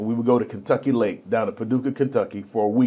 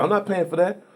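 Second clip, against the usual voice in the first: father refusing; 7 semitones higher than usual. Retold or imitated.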